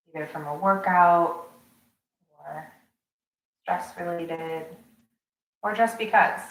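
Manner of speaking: calm guiding voice with long pauses; unhurried meditation teacher's delivery; guided meditation. Acted. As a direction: settle them into the breath, phrase by phrase.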